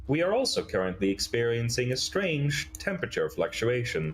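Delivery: measured, swooping robot report; stilted, formal machine announcement; robot Adam. Acted. Robot reports an anomaly to the group, mechanically stilted.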